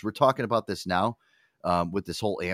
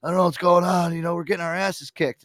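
pretend tired athlete; 8 semitones higher, 4 dB louder than usual. Athlete voiced in imagined locker-room skit.

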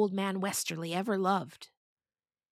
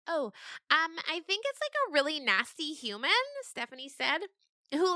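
explaining goat; 7 semitones higher than usual. Acted. Stephanie explaining the devil to goats, high voice. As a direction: explain earnestly as a kid goat.

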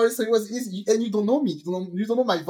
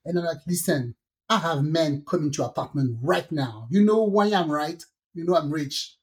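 fake man voice. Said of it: "change my voice and take a man voice".

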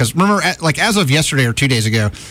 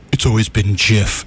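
slow, lightly put-on inventor's pronouncement; quoted inventor; 5 semitones lower, slower than usual. Co-host mocking the format's inventor, lightly put-on voice. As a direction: lightly imitate the inventor, slowly. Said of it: "the guy that invented it, was like".

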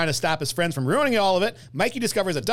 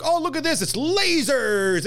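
put-on excited kid voice; 9 semitones higher, slower than usual. Voicing the kids in the attic.

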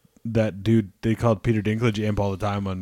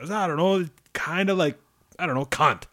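mock French guy; 6 semitones higher than usual. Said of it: "And he's just like".

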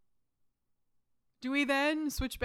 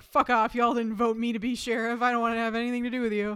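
gruff brush-off; 5 dB louder than usual. Retold or imitated. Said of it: "And he's like".

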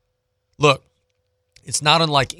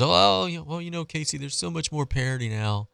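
whiny excuse maker; 3 semitones higher, 7 dB quieter than usual. Retold or imitated. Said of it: "All the pulmonary excuses".

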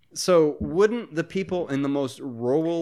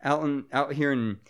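put-on a feeble stab at a Boston accent, r's dropped; half-hearted Boston accent playing up a bad impression. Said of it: "that was the worst Boston accent ever".

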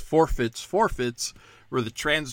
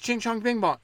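mock gibberish; 10 semitones higher than usual. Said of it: "It's not that hard. I do it".

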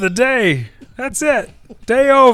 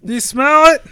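louder, punchier take; Rock catchphrase; 5 semitones higher, 6 dB louder than usual. Acted. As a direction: punch the tagline harder. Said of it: "Rock's signature line".

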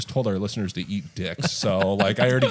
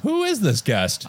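slow mock host; 10 semitones higher, much slower than usual. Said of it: "mock host intro".

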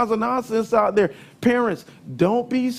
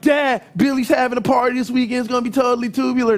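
fast, hammed-up surfer-kid pitch to dad; mock valley kid; 2 semitones higher, much faster than usual. Son pitching a party to dad, hammed-up surfer kid. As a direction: ham up a totally tubular teen. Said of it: "No, I didn't say it like that".

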